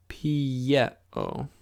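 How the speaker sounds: pieo said pi-e-o, clear and careful; model pronunciation. Shown as a demonstration. Teacher modelling pieo for students, careful. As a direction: say pieo for them to repeat. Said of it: "And again".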